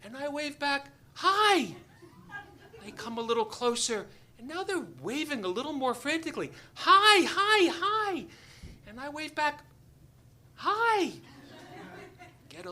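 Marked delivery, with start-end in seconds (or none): 1.1-1.8 high, loud answering hail; high-pitched shouted greeting; calling back. Retold or imitated. Himself calling back while waving. 6.7-8.3 high, loud repeated hails; excited high-pitched calls; frantic calling. Retold or imitated. Fishermen waving more frantically. 10.6-11.1 high, loud answering hail; high-pitched shouted greeting; calling back. Retold or imitated. Himself calling back while waving.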